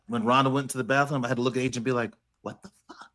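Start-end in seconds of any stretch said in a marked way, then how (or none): 2.4-3.1 whispered, incredulous aside; whispered disbelief. Acted. Playing Pat to Adrian behind Rhonda's back, whispered disbelief. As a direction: mouth it in a shocked whisper.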